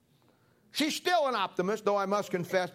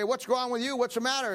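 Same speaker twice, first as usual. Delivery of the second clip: higher-pitched mock alarm; mildly startled; 4 semitones higher than usual. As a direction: act lightly startled awake, voice raised in pitch. Startled husband waking to questions.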